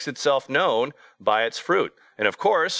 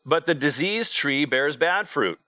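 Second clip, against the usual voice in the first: higher, measured reading of scripture; 3 semitones higher than usual. Acted. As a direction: read the verses out solemnly to the congregation.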